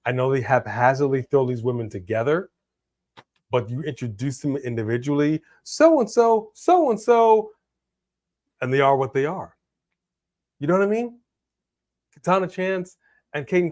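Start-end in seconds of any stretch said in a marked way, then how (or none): 5.6-7.5 higher and louder, a light announcer call; mock ring announcer. Explaining to a co-host how wrestlers are introduced, in a mock announcer voice. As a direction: toss off a quick ring introduction.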